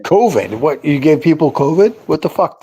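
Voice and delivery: surprised. Real, not acted. Host reacting to Sean blaming covid, shocked disbelief. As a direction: react as if you can't believe what you heard.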